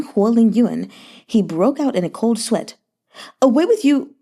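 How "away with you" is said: a sudden high frightened yell, louder; terrified shout. A narrator's reading. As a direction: shout him away in panic. Terrified king wakes to attacker.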